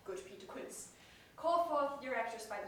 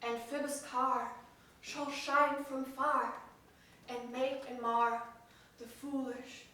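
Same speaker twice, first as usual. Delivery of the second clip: booming heroic declamation; lofty ranting; 4 dB louder than usual. Acted. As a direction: rant it like a stage tyrant. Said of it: "That was lofty".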